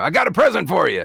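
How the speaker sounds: raspy, roughened, very high-pitched commando voice. Showing how the commando character voice was arrived at, raspy own voice. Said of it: "So just maybe your voice, but more raspy. And that's how I arrived at the commando".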